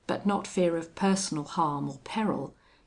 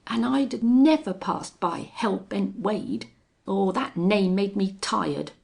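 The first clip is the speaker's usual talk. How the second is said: contemptuous; 5 semitones higher, 6 dB louder than usual. A narrator's reading. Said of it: "replied Belllounds contemptuously".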